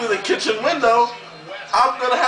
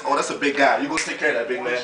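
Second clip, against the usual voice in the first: much lower, softer mock-scared voice; scared woman voice; 10 semitones lower, 4 dB quieter than usual. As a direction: lightly act out a timid woman. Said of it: "It's not like you went downstairs".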